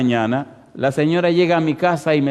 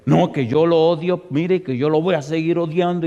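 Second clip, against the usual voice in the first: acted heated refusal, voice lifted; 2 semitones higher than usual. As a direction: flare up insistently as the woman. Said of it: "se puso caliente la señora".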